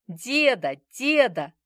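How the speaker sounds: put-on high, loud happy child calling grandpa; delighted little boy clinging on; joyful toddler. A narrator's reading. Toddler cuddling up to his grandfather, joyful. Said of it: "радостно произнёс малыш".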